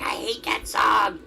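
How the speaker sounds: slow, high mock yell of disgust; mock shout. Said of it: "She's like".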